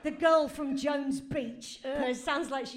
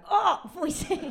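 mock cheer; 6 semitones higher, 6 dB louder than usual. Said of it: "when I can go".

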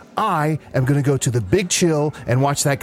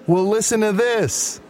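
weird calling voice; 6 semitones higher than usual. Acted. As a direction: call out oddly, pitched up. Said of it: "Why am I talking like this?".

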